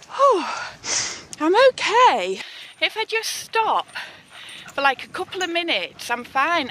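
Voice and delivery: panting after the climb; winded, gasping between words; out of breath. Real, not acted. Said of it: "I can get my breath back".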